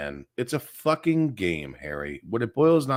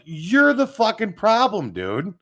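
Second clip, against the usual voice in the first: higher, slow jeering echo of the fans; mock fan praise; 7 semitones higher, 4 dB louder than usual. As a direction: mimic the fans egging him on. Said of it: "It was like".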